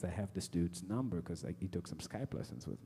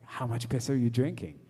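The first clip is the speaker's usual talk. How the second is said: loud, higher exasperated question; incredulous outburst; 4 semitones higher, 10 dB louder than usual. Retold or imitated. Comic challenging the man's absurd cure, incredulous outburst. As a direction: hammer out the punchline in disbelief.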